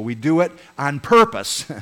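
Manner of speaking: loud emphatic proclamation; rallying declaration. Real, not acted. Pastor rallies the church about reaching the young, loud. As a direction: punch it out with conviction.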